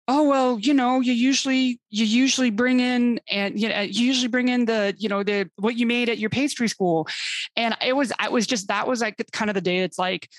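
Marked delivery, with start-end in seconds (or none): 0.1-7.1 mock colonel hinting. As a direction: play the colonel angling for her pastries. Colonels hinting about pastries.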